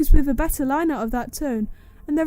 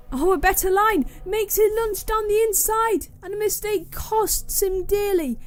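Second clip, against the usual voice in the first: excited; 5 semitones higher than usual. Real, not acted. Race commentary, overtake happening.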